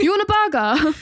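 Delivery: playful British-accented offer. Shown as a demonstration. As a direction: ham up the British "burger", dropping the r. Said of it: "Can we hear it?".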